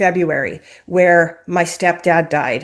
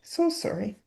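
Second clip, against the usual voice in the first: tearful apology. Real, not acted. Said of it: "It's a little bit raw still".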